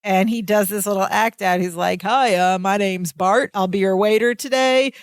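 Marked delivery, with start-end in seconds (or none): 2.0-4.9 put-on a light California surfer-dude accent; breezy California surfer waiter, lightly done; hint of a California surfer accent, laid-back waiter. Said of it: "surfer dude California accent".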